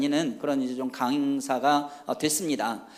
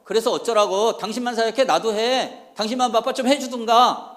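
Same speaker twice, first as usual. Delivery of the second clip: mock-irritated retort, raised pitch; imitating fed-up wife; 4 semitones higher than usual. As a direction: mildly act out a wife snapping back. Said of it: "빡친 거예요. 확 돌면서". (아내가 욱해서 따지는 흉내)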